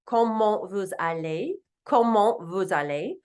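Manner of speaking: Comment vous allez said kohmoh vooz allay with a rising end; polite formal greeting, Comment vous allez; formal French. Shown as a demonstration. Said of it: "in a very formal way".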